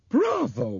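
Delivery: loud, high, feverish cheer; almost feverish cry. A narrator's reading. Bob congratulates Albert on his answer, almost feverish. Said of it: "almost feverishly".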